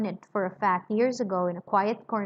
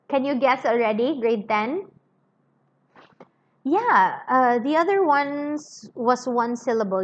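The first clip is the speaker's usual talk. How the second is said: loud pressing; 2 semitones higher, 4 dB louder than usual. Acted. Cruncher presses louder.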